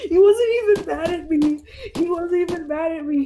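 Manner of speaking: can't believe her luck; delighted. Real, not acted. Telling friends about dad, delighted.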